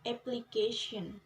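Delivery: "application" stressed on its third syllable, CA. Shown as a demonstration. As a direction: put the weight on the CA of "application". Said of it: "stress on the third syllable".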